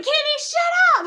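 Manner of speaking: high, slow mock snap; mom snapping. Nervous mom on the bridge snaps at her daughter. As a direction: imitate mom's tense shut up.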